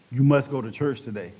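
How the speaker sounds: mildly stern, firm command. Retold or imitated. God repeating the order to a reluctant man, mildly stern command. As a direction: insist firmly, without shouting. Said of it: "Then a stern voice said".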